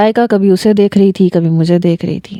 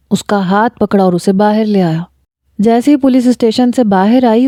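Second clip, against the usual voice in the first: ordinary delivery, nothing marked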